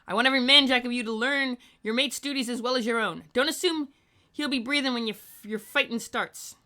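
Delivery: loud, high ship's bosun giving orders; Boatswain Flint bad bosun voice. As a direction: shout orders across the deck like a bosun. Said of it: "very bad boatswain, uh, bosun, voice".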